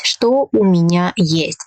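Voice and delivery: tone eases down after "Что", lifting at the end on "есть"; question-word intonation. Shown as a demonstration. Teacher modelling a question-word question, dipping after "Что" and rising on "есть". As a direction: start on "Что", dip, then rise on "есть". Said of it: "it decreases".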